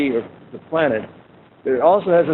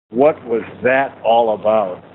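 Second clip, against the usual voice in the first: irritated question; 4 semitones lower, slower than usual. Retold or imitated. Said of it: "He's irritated".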